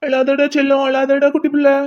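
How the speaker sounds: put-on coaxing baby-talk over the crying; cooing, anxious-to-calm reassurance; soothing a baby. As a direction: hush a crying baby with sweet pleading.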